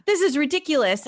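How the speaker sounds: high-pitched mock shock; imitating a captain aghast at a bill; outraged disbelief. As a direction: leap up high on an indignant outburst. Captain outraged by the huge invoice.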